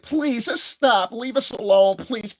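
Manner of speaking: high, very slow polite begging; mock meek plea; soft-spoken pleading. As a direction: play the timid soft guy.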